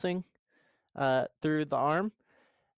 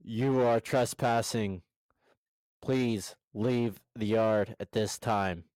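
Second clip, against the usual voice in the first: robot voice; 2 semitones lower than usual. Acted. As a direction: talk like a security robot. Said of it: "Now it's your turn to do a robot voice".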